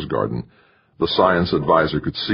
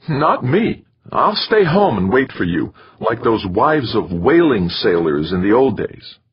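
refusing wife; 6 semitones higher, 3 dB louder than usual. A narrator's reading. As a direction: refuse him in a high-pitched wifely voice. Wife refuses to come along.

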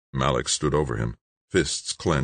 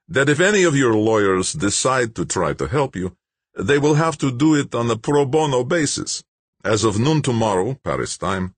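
higher, louder, self-satisfied bureaucrat; smug official Malik; 8 semitones higher, 4 dB louder than usual. A narrator's reading. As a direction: announce the shutdown coolly, pleased with yourself. Malik's voice held.

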